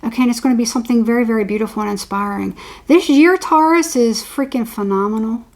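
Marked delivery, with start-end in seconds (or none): 2.8-3.9 excited. Real, not acted. Reader hyping Taurus viewers' year.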